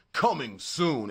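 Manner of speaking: slow, loud movie-narrator announcement; movie trailer narrator. Shown as a demonstration. Streamer showing how he voiced AI ads, movie narrator voice. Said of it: "the narrator dude from the movie".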